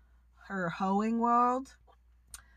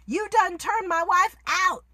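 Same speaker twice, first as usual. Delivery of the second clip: quoting angry Coach; 7 semitones higher, 4 dB louder than usual. Retold or imitated. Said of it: "He tells Mercedes".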